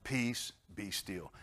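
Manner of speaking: slowly, gently; slow calm. Shown as a demonstration. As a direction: draw it out peacefully. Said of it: "what are you worried about".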